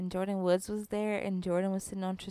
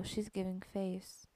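whispered sassy aside; whispering; 3 semitones lower, 10 dB quieter than usual. Real, not acted. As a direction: whisper it behind a hand. Aside about co-host's face.

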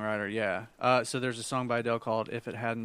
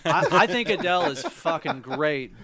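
laughing; 3 semitones higher, 6 dB louder than usual. Real, not acted. Laughing after the joke.

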